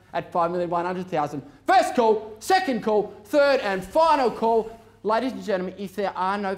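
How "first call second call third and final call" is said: auctioneer call. Real, not acted. Final calls again.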